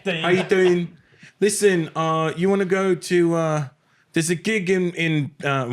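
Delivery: high-pitched impression of a small-time booking agent; John Keys. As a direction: pitch it well up as a runty agent pitching a gig. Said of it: "this agent named John Keys out there".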